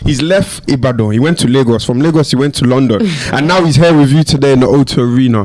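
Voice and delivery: hype man. Pretend. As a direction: sell the arrival to a packed arena. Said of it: "You have to introduce yourself before you come on stage".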